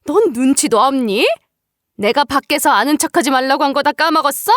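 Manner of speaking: lightly voiced haughty mother-in-law telling off her daughter-in-law; a touch of contemptuous scolding. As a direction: berate her with rhetorical questions.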